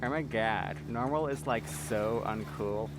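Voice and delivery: mock valley-girl voice, last words drawn out slowly; a hint of sassy slay-queen talk; yassified voice. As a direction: lightly play an over-the-top trendy girl. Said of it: "makes me talk like that".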